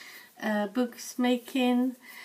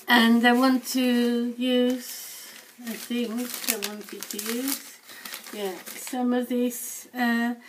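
hoarse, fading voice; losing voice. Real, not acted. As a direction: speak with a voice that's going. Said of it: "Sorry, I'm losing my voice now".

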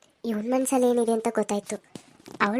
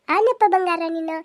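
high affectionate cooing; baby talk; 7 semitones higher, 4 dB louder than usual. Acted. Petting a baby at grandma's house, in high baby talk. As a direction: coo to the little darling.

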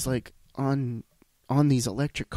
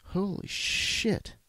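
breathless, high, voiceless holy shit; real shock, barely voiced; stunned whisper; 8 semitones higher, much slower than usual. Real, not acted. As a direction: gasp it out in disbelief. Reacting to the death toll.

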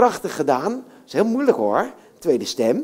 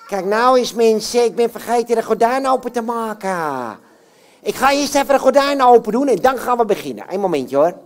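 puppet voice; 3 semitones higher, 4 dB louder than usual. Acted. Puppet Jan Klaassen voice.

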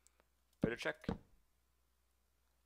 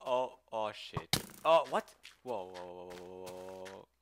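scream into giggles; 4 semitones lower, 7 dB louder, slower than usual. Real, not acted. Monster surprise.

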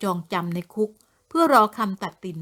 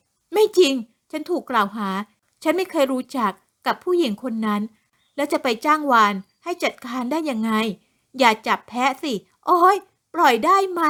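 indignant denial; 3 semitones higher than usual. Acted. Accused woman denying the charge to the officer, building indignation. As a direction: insist you are framed.

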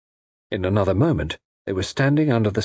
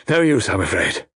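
mildly resigned, after a sigh; a touch of dejection; sad. A narrator's reading. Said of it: "said Wilbraham sadly".

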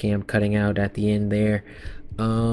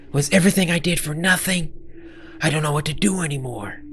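high, pleading voice; acted helpless distress; despairing character; 5 semitones higher, faster than usual. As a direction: plead in a raised, lost voice.

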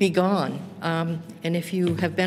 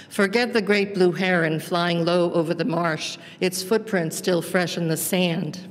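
measured, phrase-by-phrase poetry reading; poem reading. Acted. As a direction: read a poem aloud with deliberate pauses between images. Reads her poem aloud.

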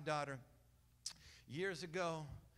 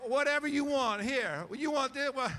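higher, louder, gushing generosity; eager offer; 8 semitones higher, 8 dB louder than usual. Retold or imitated. Preacher acts out spoiling the goddaughter, loud gushing. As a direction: overflow with delight. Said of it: "we're like".

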